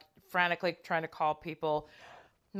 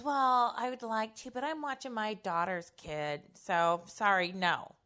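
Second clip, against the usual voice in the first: mock polite refusal; 3 semitones higher than usual. Acting out in-laws' dismissive refusal.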